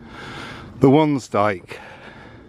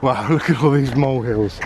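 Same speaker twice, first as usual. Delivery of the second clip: laughing. Real, not acted. Amazed at molehills.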